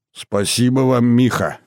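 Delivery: put-on an old man's quavering thanks. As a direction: let the voice quaver like a frail old man. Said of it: "дребезжащим голосом выговорил старик".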